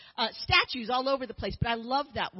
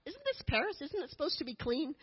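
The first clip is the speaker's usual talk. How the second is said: much higher, incredulous question; shocked question; 4 semitones higher, 6 dB quieter than usual. Retold or imitated. Speaker recalls seeing graffiti in Paris, asking in shock. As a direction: ask it in disbelief. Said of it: "I'm like".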